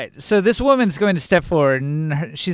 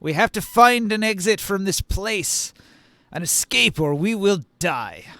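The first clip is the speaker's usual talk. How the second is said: urgent, pleading warrior voice; 3 semitones higher than usual. Acted. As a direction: grab him and warn him urgently. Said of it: "He's going to grab you by the collar and say".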